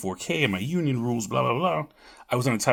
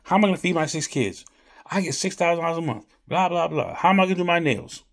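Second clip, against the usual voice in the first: higher, louder whiny quote; mock complaining lady; 8 semitones higher, 4 dB louder than usual. Retelling a lady on benefits, high mock whine. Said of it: "She's like".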